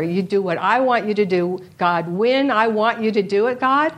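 mock demanding. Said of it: "I was praying that you would change".

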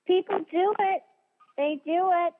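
la parola do battuta, alta e forte; stress on do. Real, not acted. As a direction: premi forte su do, con convinzione. Insisting people binge whole seasons.

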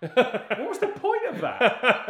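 high, loud, slow laughing why; laughing disbelief. Retold or imitated. Friend mocking a pointless movie plot, laughing. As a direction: laugh through the question in disbelief. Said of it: "I'm like".

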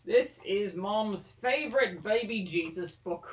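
drawn-out hammy Australian; mock Australian accent. Hosting the podcast on in a mock Australian accent. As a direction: stretch the words in a put-on Australian accent. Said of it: "I'm gonna talk like this".

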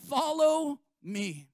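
lightly voicing Jesus calling disciples. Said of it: "He says this".

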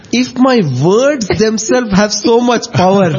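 chuckling through the boast; smug inner voice, laughing; laughing boastful thoughts. Retold or imitated. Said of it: "then this man thought".

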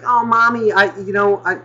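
put-on high-pitched kid calling mom; little kid. Kid pleading to mommy in the shop, high child voice. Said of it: "he was just like".

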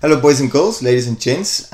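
put-on overbright kids party host. Hosts opening podcast to listeners.

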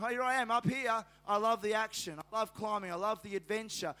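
put-on playful, excited little-boy boast; man of action. Preacher voices his two-year-old atop the wall, playful boast. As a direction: revel in the climb, lightly acted. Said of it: "he's like a man of action".

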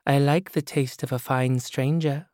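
woman softens into a new seductive voice. Acted. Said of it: "Her voice softened into another person's voice".

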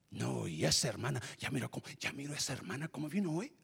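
hushed, quick gossiping voice; whisper-gossip about the sister; gossiping church lady. Acted.

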